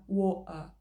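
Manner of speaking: WATER with a glottal stop for the T; London WATER, no T and no R; glottal variant. Shown as a demonstration. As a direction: swallow the T in WATER. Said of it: "você pode pronunciar".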